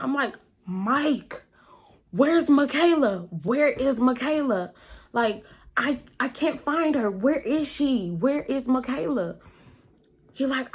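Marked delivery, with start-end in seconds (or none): 0.7-9.4 mildly panicked, insistent questioning; retold panic. Asking Mike about her missing friend, mild retold panic. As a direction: press for an answer with a touch of mock panic. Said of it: "like, panicking at this point".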